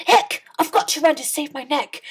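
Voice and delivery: high, loud panicked shout; Cindy shouts in panic at midnight. A narrator's reading. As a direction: yell it as the clock strikes. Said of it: "She shouted".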